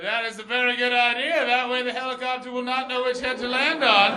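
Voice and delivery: high, loud, stretched-out announcement; absurd earnest declaration. Retold or imitated. High man answering a drunk girl, loud earnest proclamation. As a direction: proclaim nonsense loudly and solemnly.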